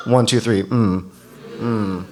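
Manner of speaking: counted-in hum of approval; crowd hum cue. Shown as a demonstration. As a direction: lead the room into a quiet mm. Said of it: "Can I hear go".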